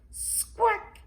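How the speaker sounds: very high, loud parrot squawk. A narrator's reading. Polly the parrot answers Granny Pig, squawking. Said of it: "says Polly".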